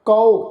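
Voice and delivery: ਕਉ said "kau" with an au vowel, not "ko"; correct pronunciation. Shown as a demonstration. Teacher corrects the class: ਕਉ as "kau". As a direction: open ਕਉ as "kau", never "ko". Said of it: "ਕੱਕੇ ਦੇ ਉੱਪਰ ਕਨੌੜੇ ਦੀ ਮਾਤਰਾ ਨਾਲ".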